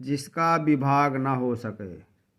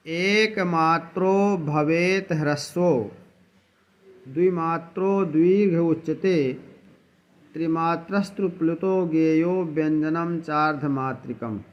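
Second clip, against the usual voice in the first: shloka recitation; 2 semitones higher than usual. Shown as a demonstration. Teacher reciting the Sanskrit shloka on vowel lengths to students. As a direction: intone the verse like a recitation. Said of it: "इसके लिए एक श्लोक है".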